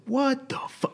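surprised yelp. Retold or imitated. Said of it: "I said".

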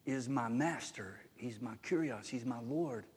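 soft, hushed confession; reverent confession. Retold or imitated. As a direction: confess it quietly, in awe. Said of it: "he also said".

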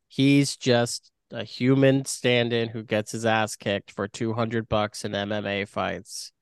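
slow, dull, uninterested read; bored monotone. Shown as a demonstration. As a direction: drone it out like it bores you. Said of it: "I'm reading about him so boringly".

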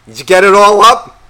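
high, shouted mock question; imitated shout across the table; loud heckling question. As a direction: call it out like a rowdy buddy. Friend calls out to sick groom.

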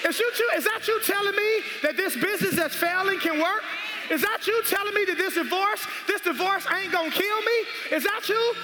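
high, insistent preacher's questions; impassioned rising plea; bold questioning. Shown as a demonstration. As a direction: ask God boldly, lifting each question. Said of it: "you ain't saying it with boldness".

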